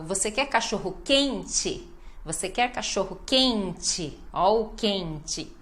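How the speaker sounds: "quente" with a long QUEN, short "te"; penultimate stress. Shown as a demonstration. Teacher showing question stress, lengthened QUEN in "quente". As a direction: stretch QUEN in "quente" then fall. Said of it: "ênfase na penúltima".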